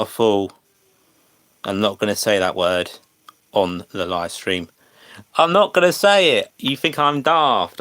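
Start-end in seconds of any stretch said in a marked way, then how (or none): 5.4-7.8 much higher and louder, refusing the bait; indignant outburst. Real, not acted. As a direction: shoot it down like you've been insulted. Chat baiting streamer into swear.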